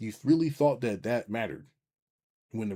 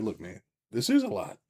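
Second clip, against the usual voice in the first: reassuring friend; 5 semitones higher, 6 dB louder than usual. Retold or imitated. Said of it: "or I can be like".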